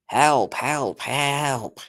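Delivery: lightly voiced narrator impression; George Carlin. Imitating a fourth narrator's scream, mild mock cries. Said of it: "George Carlin".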